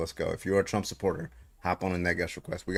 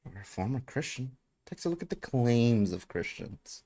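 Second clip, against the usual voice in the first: Paul Gia; 5 semitones higher than usual. Retold or imitated. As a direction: toss the catchphrase off again, teasing. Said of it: "What's his line?".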